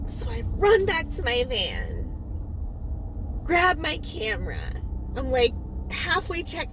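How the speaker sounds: talking through hiccups; hiccupy, catching breath. Real, not acted. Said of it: "sorry, I have the hiccups this morning".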